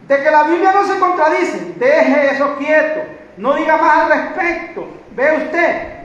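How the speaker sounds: firm, high-energy preaching. Real, not acted. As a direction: admonish the congregation from the pulpit.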